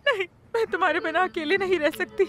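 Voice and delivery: crying as she protests; tearful refusal. Acted. Mother tells son she cannot live alone, tearfully. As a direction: plead through tears.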